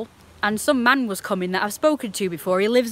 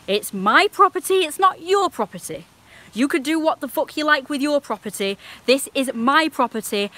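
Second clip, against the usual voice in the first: raised, higher indignant comeback; indignant retort; 4 semitones higher than usual. Retold or imitated. Telling the neighbour it's her property, raised and indignant. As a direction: put the neighbour in his place.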